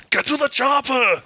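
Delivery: Arnold impression. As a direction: bark it like an action hero. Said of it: "to do Arnold".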